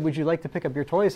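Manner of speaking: a gentle question that rises at the end; polite asking. Shown as a demonstration. Parent asking a child to pick up toys, polite rising question. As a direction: ask politely, as if the child may say no. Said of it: "if you said".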